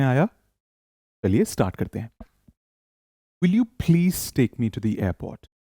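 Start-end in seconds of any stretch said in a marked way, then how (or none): 3.4-5.5 slow, careful model sentence for repeating. Shown as a demonstration. Teacher models a request slowly for students to repeat. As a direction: say it slowly so they can copy. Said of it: "मेरे पीछे repeat करिए".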